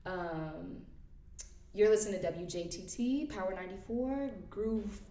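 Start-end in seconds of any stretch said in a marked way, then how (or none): 1.7-5.0 radio DJ voice. Shown as a demonstration. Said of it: "I would hop into my radio, radio voice".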